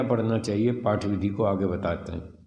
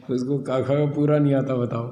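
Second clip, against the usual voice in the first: indignant outburst; 4 semitones higher, 5 dB louder than usual. Real, not acted. Indignant about students' ignorance.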